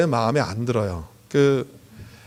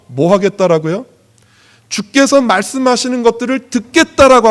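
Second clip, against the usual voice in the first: raised, insistent pulpit voice; emphatic preaching; 3 semitones higher, 5 dB louder than usual. Real, not acted. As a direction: preach it with punched key words. Preaches to congregation.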